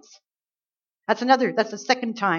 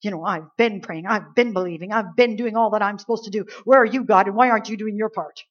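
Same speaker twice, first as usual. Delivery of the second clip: indignant complaint. Acted. Proud believer asking why God isn't doing his part, mildly indignant. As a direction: list your efforts, then challenge God. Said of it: "you get indignant and you rise up".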